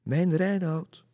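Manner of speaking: high, slow, loud lament; tearful calling out. A narrator's reading. Lady on the tower calls her lost lover, tearful cry. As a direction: cry out mournfully, stretching the words. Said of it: "Je kon de tranen door haar stem heen horen".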